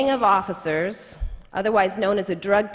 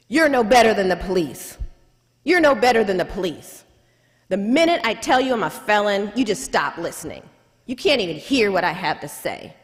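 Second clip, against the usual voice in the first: enraged client. Retold or imitated. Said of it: "he becomes enraged".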